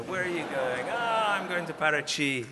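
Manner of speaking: chirpy mock greeting of the helpful guys; lightly voiced cheerful strangers; friendly strangers' voices.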